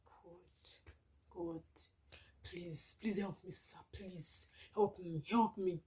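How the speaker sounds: very soft, halting retold prayer; hushed frightened plea. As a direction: beg God under your breath, pausing between pleas. Frightened prayer amid strange sounds.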